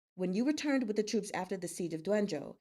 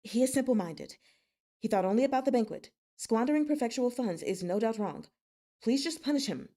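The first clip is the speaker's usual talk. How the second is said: hurried, pleading, a touch louder; kneeling officer begging the lord for mercy; urgent plea; 3 semitones higher, 4 dB louder than usual. Acted. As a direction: beg quickly for leniency.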